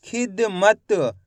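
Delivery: खिदमत very slowly in pieces, खि-द-मत; sounded out slowly. Shown as a demonstration. Teacher helps pupils hear the last letter, sounded out slowly. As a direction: stretch खिदमत out, releasing the final त. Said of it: "खिदमत बोलेंगे तो द".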